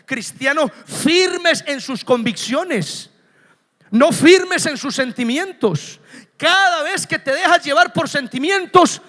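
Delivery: slow, loud, pounding each word "firmes"; preaching shout. Real, not acted. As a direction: proclaim it to the whole church. (grito de predicador, lento y fuerte)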